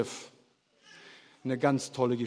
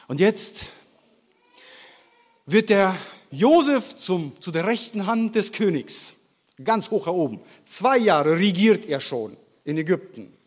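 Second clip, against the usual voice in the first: loud, higher, driving sermon voice; forceful preaching; 4 semitones higher, 6 dB louder than usual. Acted. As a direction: hammer the story home to the congregation. Preaches Josef story with force. (kraftvoll predigend, laut)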